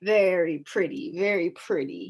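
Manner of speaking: scowling. Acted. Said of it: "he scowled".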